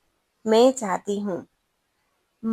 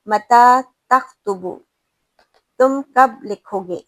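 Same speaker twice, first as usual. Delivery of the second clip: plain asking; 5 dB louder, slower than usual. Shown as a demonstration. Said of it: "یہاں پر آپ کوئی جھٹکا نہیں دے رہے".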